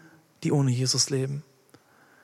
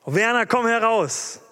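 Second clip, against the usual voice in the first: higher, louder call to Werner; calling out a name; 6 semitones higher, 3 dB louder than usual. Pretend. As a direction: summon him by name, ringing. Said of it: "calls out congregation names". (Werner wird laut beim Namen gerufen)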